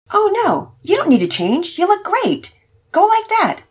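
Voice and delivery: lightly voiced hopeful dad; a dad carefully inviting his family; father voice. Father inviting wife and son, lightly voiced dad.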